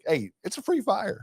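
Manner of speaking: high, hammed-up country accent; put-on rural accent. Joking dad about a house fire, high put-on rural accent. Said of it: "why, why the accent?".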